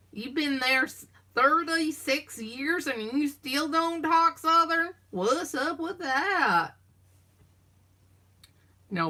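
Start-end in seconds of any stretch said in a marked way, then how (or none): 0.1-6.7 high, slow, drawn-out incredulous question; mock disbelief. Teasing someone who still doesn't talk Southern, mock disbelief. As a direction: stretch it out in teasing amazement.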